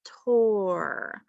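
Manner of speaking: "hiss, tor" slowly, with a gap between; measured sounding-out of "hiss, tor"; syllable by syllable. Shown as a demonstration. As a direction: stretch "hiss" and "tor" as separate beats. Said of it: "see what our second syllable was".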